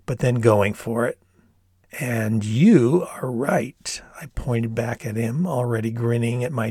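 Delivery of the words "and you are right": slow stage whisper. Retold or imitated. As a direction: breathe it as a teasing aside. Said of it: "Mimicking his sing-songy voice".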